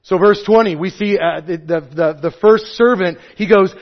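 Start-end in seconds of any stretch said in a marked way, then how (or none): none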